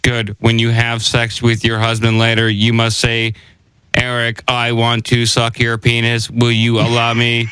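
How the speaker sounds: flat, even robot delivery. Pretend. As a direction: talk like a stiff machine. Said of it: "Sound like humans impersonating robots".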